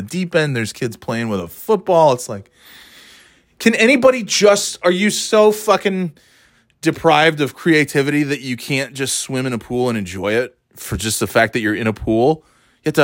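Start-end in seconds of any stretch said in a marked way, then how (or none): 3.6-9.5 high-pitched exasperated outburst; exasperated rant. Retold or imitated. Poolgoer ranting at ball players, exasperated. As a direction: plead in annoyance, pitched well up.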